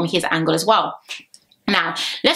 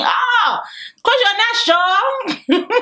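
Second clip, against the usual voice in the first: mock shout; 13 semitones higher, much slower than usual. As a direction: yell it at the screen in jest. Mock yelled inner thought.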